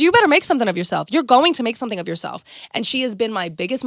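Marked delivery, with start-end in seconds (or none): 0.0-2.4 mom's urging. Retold or imitated. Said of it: "She goes".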